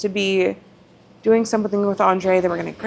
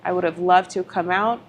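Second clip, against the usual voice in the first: calm. Retold or imitated. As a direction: keep it steady and gentle. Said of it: "I just calmly said".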